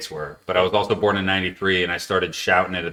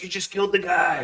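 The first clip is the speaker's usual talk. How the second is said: mock crowd reaction; 10 semitones higher, 4 dB quieter than usual. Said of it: "they're like".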